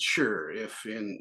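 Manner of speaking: condescending. Retold or imitated. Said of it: "in a condescending way".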